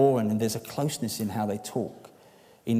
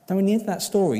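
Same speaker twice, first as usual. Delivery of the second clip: loud emphatic repeat; 9 semitones higher, 6 dB louder, much faster than usual. Real, not acted. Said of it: "repeats the opening".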